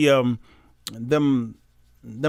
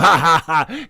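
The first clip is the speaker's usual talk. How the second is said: imitated jeering laugh at usual pitch; mock laughter. Preacher voicing nations pointing at Jerusalem, mock laughter. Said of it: "the other nations are laughing".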